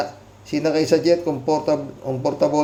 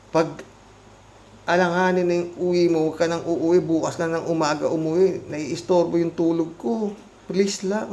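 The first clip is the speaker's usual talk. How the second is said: a husband mimics his annoyed wife at the door; mock angry wife; 2 semitones higher, 4 dB quieter than usual. Imitating wife scolding a late husband, lightly raised voice. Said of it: "galit yan".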